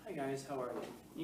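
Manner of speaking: lightly voiced, slow and soft easygoing greeting; a hint of a mellow, unhurried principal; laid-back imitation. Teacher imitating a former principal greeting students, slow and soft. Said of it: "he talked like this".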